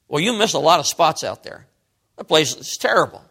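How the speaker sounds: lightly acted nagging father; mock fault-finding, rising in pitch as complaints pile up; critical dad. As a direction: scold like a dissatisfied dad, mildly. Acted dad criticizing son's mowing.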